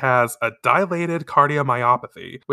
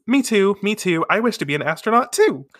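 higher, lightly voiced eager girl; eager child; 7 semitones higher than usual. Hime agreeing with Kakeru about being astronauts, eager. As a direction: chime in keenly, pitched up.

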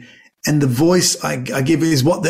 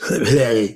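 grunting heh; 4 semitones lower than usual. Retold or imitated. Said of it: "And I go".

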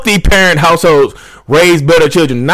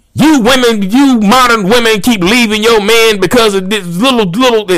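a lightly voiced lecturing pundit, a bit higher; Kevin Samuels impression; 5 semitones higher than usual. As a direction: preach at modern women like a podcast pundit. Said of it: "Kevin Samuels say that all the time".

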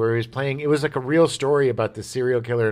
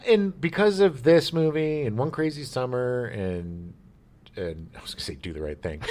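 laughing. Real, not acted. Joking wrong title, laughing.

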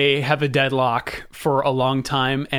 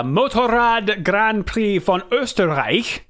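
announcer voice; 5 semitones higher, slower than usual. Acted. Race announcer voice, German name.

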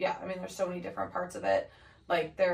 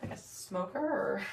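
hoarse from laryngitis; rough, worn laryngitis voice. Real, not acted. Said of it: "pardon my voice".

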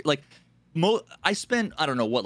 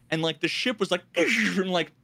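usual speaking voice

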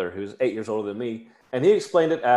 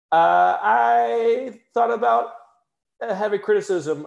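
emphatic; 10 semitones higher, 4 dB louder than usual. Real, not acted. Dramatic emphasis.

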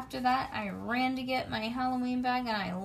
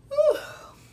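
loud high sigh; 10 dB louder than usual. Acted. Wistful moment at the mirror.

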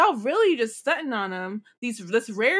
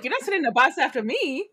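mock paranoid; 4 semitones higher, 3 dB louder than usual. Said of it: "You're like".

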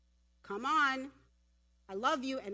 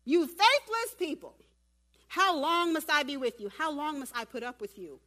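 loud acted rebuke, easing toward the end; hammed-up fed-up outburst; rough exasperated Jesus; 5 semitones higher, 7 dB louder than usual. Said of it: "even a bit more rough".

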